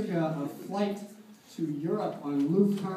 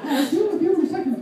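Minnie snaps; 10 semitones higher, 6 dB louder, faster than usual. Acted. Minnie snapping at Donald.

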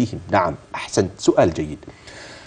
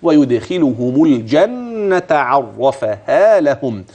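slow tajweed reading, clear lam; Quranic recitation demo; slower than usual. Shown as a demonstration. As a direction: recite slowly, sounding every letter. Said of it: "فانتبه لها".

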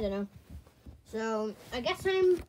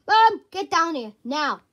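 calling out; 7 dB louder than usual. Acted. Calling mom downstairs.

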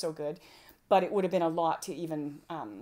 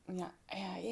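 a hushed, eager string of yeses; whispered child's yes; 8 dB quieter than usual. Pretend. Mother acting the child, whispering yes. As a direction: whisper it like a shy pupil. Child answering in mock lesson.

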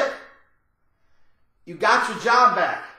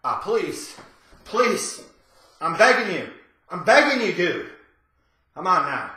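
low, soft mock begging; hammed-up begging; 6 semitones lower, 4 dB quieter than usual. Begging the cat-napper to spare the cat, soft mock plea. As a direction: beg pitifully, overplayed.

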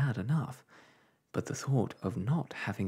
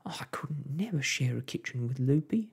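higher and louder, mild alarm; cried out; 6 semitones higher, 3 dB louder than usual. A narrator's reading. Wife refusing to share a kitchen, agitated cry. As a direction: protest it, pitched up. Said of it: "cried Homily".

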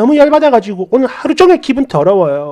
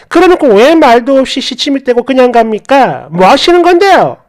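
wife scolding the stranger, raised and sharp; heated quarrel; 2 semitones higher than usual. Retold or imitated. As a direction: push the accusation home. Wife confronts the man.

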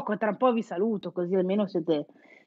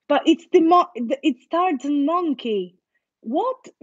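mock disbelief; 5 semitones higher, slower than usual. Teacher retelling her own mock shock to the class, surprised. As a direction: act out realising it's the Tarzan monkey. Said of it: "Io quando l'ho saputo ho detto".

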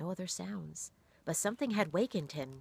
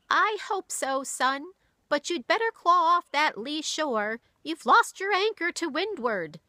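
put-on much higher, louder old woman's voice; sad old granny; 11 semitones higher, 9 dB louder than usual. A narrator's reading. Granny warning grieving son, sad old woman. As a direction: speak as a weary old grandmother.

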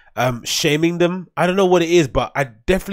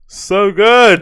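"So good!" louder and higher, relishing; delighted exclaim; 6 semitones higher, 8 dB louder than usual. Real, not acted. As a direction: punch "good" with glee. Savoring the clip.

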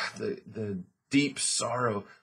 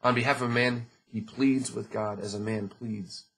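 scripture reading. Acted. Pastor reading Job's hope to the church, earnest. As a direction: let each phrase of the verse land. Reads verse.

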